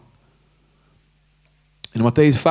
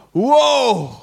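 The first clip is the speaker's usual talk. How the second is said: awed wow; 8 semitones higher than usual. Real, not acted. Preacher marvels at the cross, high awed exclamation. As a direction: let the wonder burst out. Awe at God's sacrifice.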